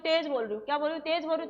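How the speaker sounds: loud side of a volume demo; demonstrating loud speech. Shown as a demonstration. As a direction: say it out firmly to show volume. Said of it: "अब मान लो मैं क्या बोल रही हूँ".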